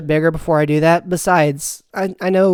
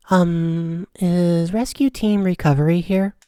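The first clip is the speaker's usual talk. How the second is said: light airy voice; slower than usual. Acted. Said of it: "But I'll try it anyway".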